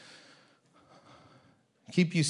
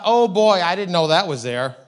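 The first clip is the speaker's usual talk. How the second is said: surprised realization; 2 semitones higher, 8 dB louder than usual. Retold or imitated. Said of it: "and thought".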